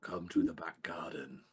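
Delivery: slow, put-on impersonation; Gauze impression. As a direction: imitate a friend in a slow, subdued drone. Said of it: "in his best Gauze impression".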